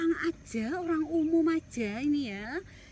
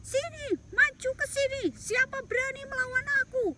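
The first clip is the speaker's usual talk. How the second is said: higher, louder booming challenge; giant taunting; 9 semitones higher, 3 dB louder than usual. Acted. Goliath taunts the soldiers as David listens. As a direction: call out the fight, boastful. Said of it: "Daud mendengar".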